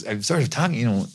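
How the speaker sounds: rough attempt at a Minnesotan farmer; tentative Minnesotan farmer accent. Shown as a demonstration. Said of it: "I was playing a Minnesotan farmer".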